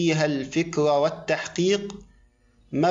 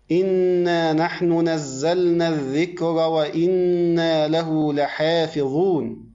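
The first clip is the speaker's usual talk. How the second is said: تلاوة قرآنية. Acted. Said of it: "كما قال الله تعالى".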